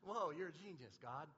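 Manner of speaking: casual, buddy-like wonder; casual awed praise. Retold or imitated. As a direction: tell God he's a genius like a pal. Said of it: "that's how I talk to him".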